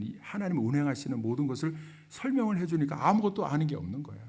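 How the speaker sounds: normal talking voice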